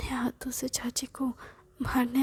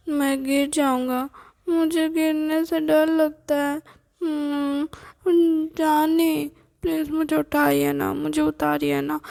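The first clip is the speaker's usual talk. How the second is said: put-on scared child; 5 dB louder than usual. Boy begs his grandmother to lift him down, scared.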